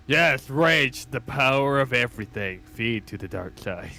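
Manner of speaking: loud start, sinking at the end; lightly hammed-up villain goading someone; mock dark-side villain. Gamer mimics a villain urging rage on, mock-menacing.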